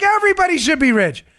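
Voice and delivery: high, exuberant proclamation; Trump. Acted. Host mimics president promising wealth to all, high gleeful voice. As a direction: proclaim it with mock presidential glee. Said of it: "Trump's like".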